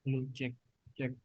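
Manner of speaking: faint distant mic check; testing the mic from far away. Real, not acted. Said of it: "Suaranya kecil banget".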